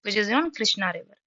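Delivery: drawn out word by word; very slow memory aid. Shown as a demonstration. Teacher to class, slowly drilling the river name. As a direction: spell it out slowly so students remember. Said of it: "मैं आपको ऐसे याद करा रही हूँ".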